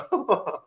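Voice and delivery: put-on a sweet, high little laugh like a child's; childlike giggle. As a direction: giggle innocently, like a kid. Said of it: "this sweetheart little laugh, like a child".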